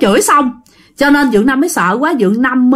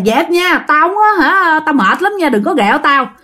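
raised-pitch, mildly angry scolding; chửi sảng; 5 semitones higher than usual. Acted. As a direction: warn off an unseen prankster in a higher, annoyed voice. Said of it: "dì Năm cũng chửi sảng xuống". (chửi xua đuổi, giọng cao)

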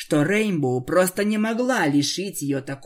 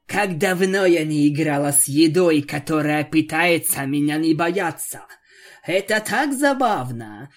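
louder gleeful relish; gleeful vampire; 3 dB louder than usual. Acted. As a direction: delight in toying with food. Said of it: "рассмеялась во всё горло".

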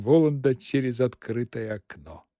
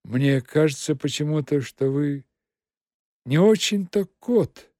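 hesitant. Acted. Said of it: "нерешительно ответил мастер".

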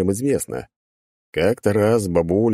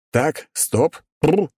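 high, moderately raised yell; yelling halt; 9 semitones higher, much slower than usual. A narrator's reading. Adventurer halting the excited crowd, acted yell. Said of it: "заорал я".

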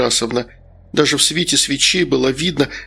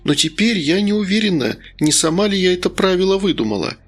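lightly voiced woman's part, pitched up; confiding, wistful hostess; 3 semitones higher than usual. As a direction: confide apologetically, turning gently sorrowful. (доверительно, с лёгкой грустью)

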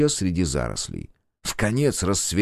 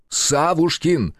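bellowed; 8 semitones higher, much slower than usual. A narrator's reading. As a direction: bellow the name across the yard. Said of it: "гаркнул режиссёр".

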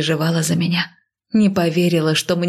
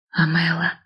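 hushed exhale. A narrator's reading. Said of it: "тихо выдохнула мачеха".

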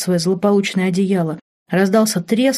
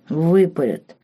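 gloomy mutter; slower than usual. A narrator's reading. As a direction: dread the punishment. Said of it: "с тоской добавил он".

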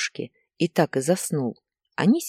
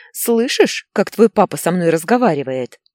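high, loud outraged wife; yelling; 3 semitones higher, 7 dB louder than usual. A narrator's reading. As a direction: yell indignantly for the child to hear. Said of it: "заорала Инна". (возмущённый крик)

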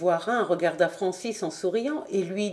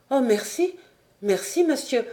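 higher, bursting with thanks; grateful exclamation; 4 semitones higher than usual. Acted. Apprentice thanking the director for the money, excited cry. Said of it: "s'écria-t-il".

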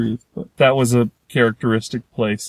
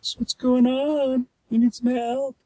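much higher and softer, friendly coo; nice tyrannosaur voice; 10 semitones higher, 4 dB quieter than usual. Retold or imitated. T-Rexes greeting the lost little dinosaur, high soft friendly coo. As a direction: sweet-talk the little guy, higher and softer.

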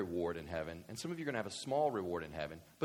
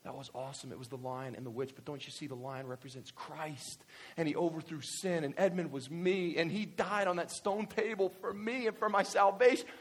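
thoughtful adult; 4 semitones higher than usual. Retold or imitated. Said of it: "But I'm doing the same thing".

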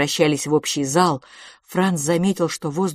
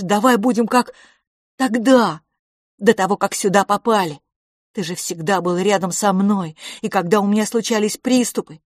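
higher and louder, near tears; desperate pleading boy; 3 semitones higher, 4 dB louder than usual. Acted. Boy begs his silent twin brother, pleading desperately. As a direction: beg him to answer you. Franz pleads, fearing a rift.

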